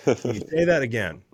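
lightly acted disbelief, rising sharply on "what"; imitated baffled refs. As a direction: mimic a referee doing a mild double take. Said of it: "refs had to stop and be like".

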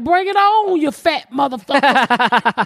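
cat's taunt. Retold or imitated. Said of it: "he was like".

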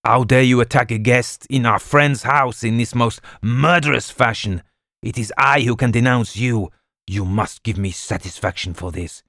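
indignant accusation; outraged. A narrator's reading. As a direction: hurl the accusation. Duval continues outraged protest.

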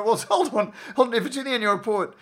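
high, laughing incredulous hold on; laughing disbelief. Retold or imitated. To Kent on the phone, high laughing disbelief. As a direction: laugh through the challenge in disbelief.

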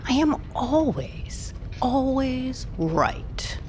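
slow, whispered and unvoiced; menacing whisper. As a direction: hiss the claim slowly, with menace. Owl's menacing repetition.

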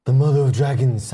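Jon Snow accent pitched too low. Shown as a demonstration. Showing the mistake in his impression, pitched too low. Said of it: "I'm going too low with it".

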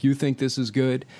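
mock his sneer at the intro; mocking the program director. Program director scoffing at the podcast intro, mock sneer. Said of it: "and he's going".

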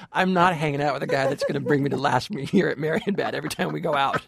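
quick, put-upon date turning him down; lightly voiced exasperated date; unimpressed date. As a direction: brush him off as the fed-up date. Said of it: "your date's gonna be like".

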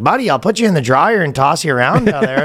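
lightly hammed-up Canadian hockey player accent. Shown as a demonstration. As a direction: make the threat harmless in hockey player accent. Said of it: "hockey player accent makes".

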